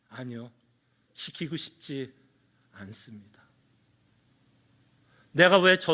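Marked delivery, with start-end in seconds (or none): 0.1-3.4 soft, low, hushed refusal; honest reluctant answer. Retold or imitated. Pastor voicing his own honest no to God, hushed. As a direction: quietly admit you don't want to. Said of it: "뭐라고 대답할 것 같아요?".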